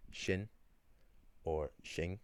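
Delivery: shin, then shing with a soft ng ending; Irish word spoken with Munster sounds; Munster pronunciation. Shown as a demonstration. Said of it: "where they would use".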